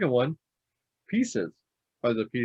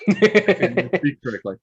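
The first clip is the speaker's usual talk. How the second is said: put-on town drunk; 7 semitones higher, 7 dB louder than usual. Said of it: "Clearly I am at this point".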